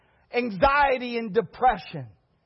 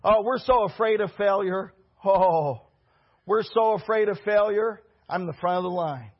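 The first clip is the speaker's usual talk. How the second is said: mocking whiny men; 4 semitones lower than usual. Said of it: "Men do that".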